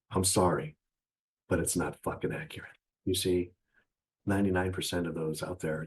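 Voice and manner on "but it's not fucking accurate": unvoiced mutter. Real, not acted. Swearing aside after apology.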